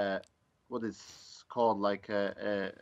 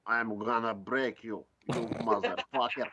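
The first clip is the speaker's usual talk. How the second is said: hard Russian accent. Shown as a demonstration. Driver showing hosts his gangster act, hard Russian accent. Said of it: "a really hard one".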